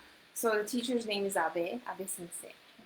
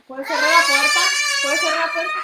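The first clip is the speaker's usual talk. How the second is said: loud, high yelling at someone across the room; sudden shout; 14 dB louder, much faster than usual. Real, not acted. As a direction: abruptly call out loudly to close the door. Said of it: "Okay, sorry".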